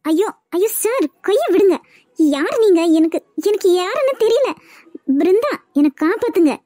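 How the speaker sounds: high, panicked pleading to let go; a stranger grips her hand, she cries out in fear; frightened plea. Acted. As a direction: beg to be freed, scared. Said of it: "எனக்கு பயமா இருக்கு".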